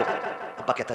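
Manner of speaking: usual speaking voice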